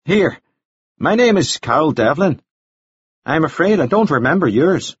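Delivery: high, polished English gentleman voice; pleasant, chatty, a bit formal; genteel gentleman. A narrator's reading. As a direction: Devlin making polite conversation about the weather. Devlin's voice.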